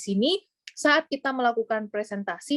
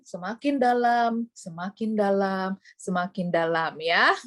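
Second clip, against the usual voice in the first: sleepy slow drone. Shown as a demonstration. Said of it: "orang keburu tidur".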